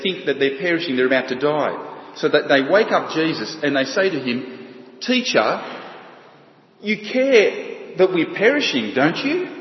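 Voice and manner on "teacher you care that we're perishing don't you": high, pleading voice of terrified disciples; panicked plea. Retold or imitated. Frightened disciples begging their sleeping teacher, high panicked plea. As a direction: cry out to the teacher as the boat sinks. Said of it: "are panicking".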